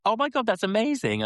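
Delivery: high, breathless gush of delight; gushing amazement. Retold or imitated. Chatting woman gushes at a famous rider's name. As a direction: gush like she's starstruck.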